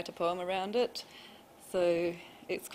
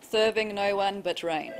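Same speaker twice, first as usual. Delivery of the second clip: measured, slightly raised poetry reading; poem recital; 2 semitones higher, 4 dB louder, slower than usual. Acted. Poet reads their verse to an audience, measured recital. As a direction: read your poem to a room, spaced line by line.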